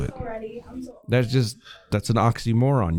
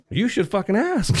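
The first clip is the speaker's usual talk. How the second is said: emphatic outburst; 11 semitones higher than usual. Real, not acted.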